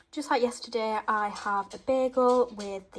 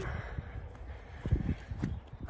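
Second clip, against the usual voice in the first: breathless sigh; 9 dB quieter than usual. Real, not acted. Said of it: "I'm out of breath now".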